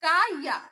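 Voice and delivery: কা ইয়া said with ka and ya close together; kya sound. Shown as a demonstration. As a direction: slide কা into ইয়া smoothly. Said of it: "কায়ের উচ্চারণ কায়ের মতো হচ্ছে".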